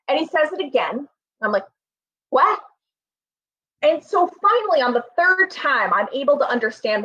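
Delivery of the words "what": confused what. Retold or imitated. Asked again louder.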